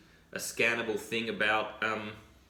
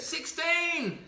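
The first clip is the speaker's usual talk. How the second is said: man yelling. Acted. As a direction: shout it while jumping. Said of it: "he goes".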